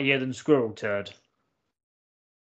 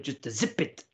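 Doctor Evil impression; slower than usual. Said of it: "Just do the Doctor Evil one".

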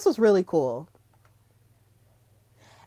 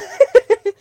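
excited laugh; 13 semitones higher, 9 dB louder than usual. Real, not acted. Gushing over favourite wrestler.

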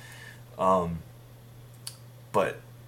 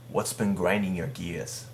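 put-on light Boston accent, pitched up at first then settling; attempted Boston accent. Host asks Clark what's been grinding his gears, attempted Boston accent. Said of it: "You had a little accent there".

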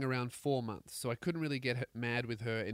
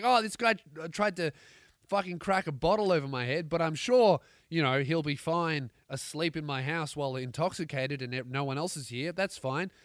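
put-on Australian accent; 3 semitones higher, 4 dB louder than usual. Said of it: "That's so Australian".

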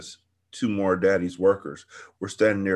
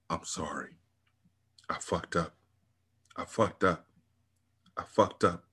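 whispered apology; 2 semitones lower, 8 dB quieter than usual. Acted. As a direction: whisper it into her hair, broken. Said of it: "his voice whispered".

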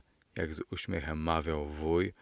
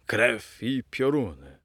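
slow, louder roar, pitched higher; 4 semitones higher, 5 dB louder than usual. A narrator's reading. Shady gentleman roaring at the uncle, slow bellow. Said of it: "ryknął drugi dżentelmen".

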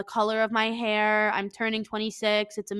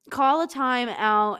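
slow reading; 3 dB louder, slower than usual. Shown as a demonstration. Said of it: "reads line slowly".

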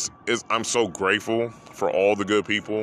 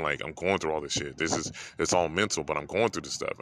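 emotional; 3 semitones lower, 5 dB quieter than usual. Real, not acted. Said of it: "I just got hella emotional".

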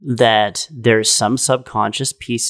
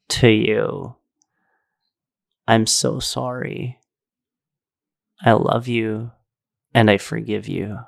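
retold tender apology. Retold tender apology to suffering entity.

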